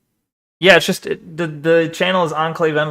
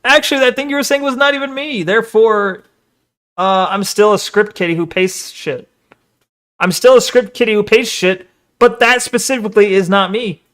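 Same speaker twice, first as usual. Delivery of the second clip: mock gloating; 3 semitones higher than usual. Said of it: "He's trying to use this as ammo, being like".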